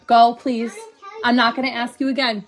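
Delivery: sharp, stern final warning; firm and stern. Real, not acted. Firm order to child.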